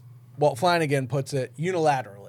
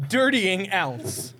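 drawn-out quizmaster reading; slow, deliberate clue; 3 semitones higher, much slower than usual. Shown as a demonstration. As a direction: lay out each word slowly. Repeats the puzzle clue.

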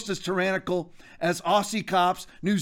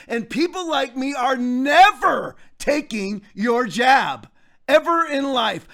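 louder, higher, slow and emphatic; defiant declaration; 4 semitones higher, 5 dB louder, slower than usual. Real, not acted. Telling cops and politicians he will never take the jab, loud and defiant. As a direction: dig in and refuse it for good, hammering each word. Ranting at cops about vaccine mandates.

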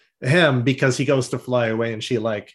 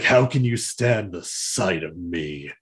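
mopey Silverbolt; 7 semitones lower, slower than usual. Retold or imitated. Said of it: "he's like".

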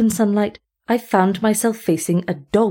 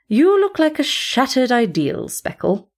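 cool scorn; 5 semitones higher than usual. Acted. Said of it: "trying to make him sensible".

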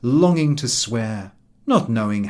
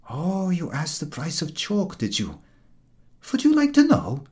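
higher, rising sarcastic threat; menacing retort; 6 semitones higher than usual. A narrator's reading. Milk-cart dog threatening the jeering dog, sarcastic and higher. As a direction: turn the jibe back on him. Dog bristles at chalk jibe.

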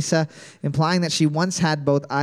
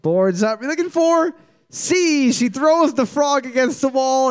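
game show answer reveal; 5 semitones higher than usual. Pretend. Host announces the quiz answer.

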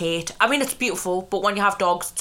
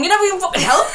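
loud, high, laughing accusation; laughing shout; 11 semitones higher, 6 dB louder, faster than usual. Real, not acted. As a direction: yell it through laughter.

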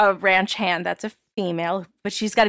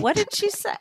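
mock confusion; 12 semitones higher, 3 dB quieter than usual.

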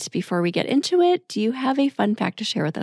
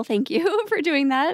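thanks broken by a real laugh, slower; 8 semitones higher, slower than usual. Real, not acted. Host thanking guest for the riddle, laughing. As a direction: thank her through a laugh.

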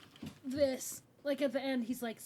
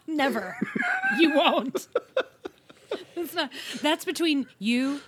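laughing; 8 semitones higher, 5 dB louder than usual. Real, not acted. Laughing refusal.

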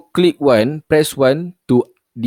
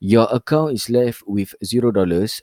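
robot voice; 3 semitones lower than usual. Retold or imitated. Imitating automated bank message.

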